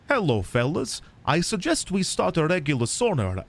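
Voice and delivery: put-on light Finnish accent reading the note; a hint of Finnish accent for the letter. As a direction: read it in a mild Finnish accent. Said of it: "I keep slipping into the accent".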